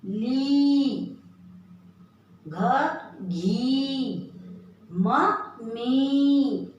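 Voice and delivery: ली, घी and मी with a long, leaned-on ई; teacher stretching the long ई sound; stressed long ई. Shown as a demonstration. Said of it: "इसका उच्चारण जोर दे के बोलते हैं".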